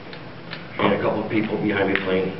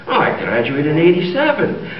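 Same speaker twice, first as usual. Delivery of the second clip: raised, lilting Irish brogue; jokey put-on Irish accent; 5 semitones higher than usual. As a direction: announce it as a stage Irishman. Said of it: "do I detect a bit of Irish?".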